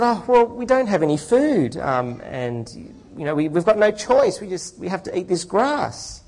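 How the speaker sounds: lightly voiced hungry man pleading; poor man voice.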